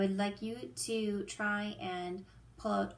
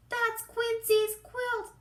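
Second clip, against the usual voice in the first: very high, loud, slow duck squawk; quacking duck voice; 12 semitones higher, 5 dB louder, slower than usual. Acted. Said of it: "quacks Dottie".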